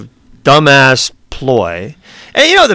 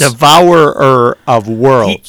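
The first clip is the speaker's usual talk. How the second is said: slow, ominous trailer voice; dramatic movie trailer voice; 3 semitones lower, much slower than usual. Pretend. Echoing the epithet dramatically.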